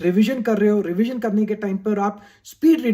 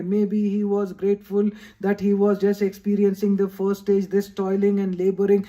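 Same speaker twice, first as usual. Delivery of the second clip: monotone read-aloud, steady pitch; much slower than usual. Shown as a demonstration. Student reading a book aloud to study, monotone recitation. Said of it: "ऐसे हम जोर जोर से पढ़ते हैं".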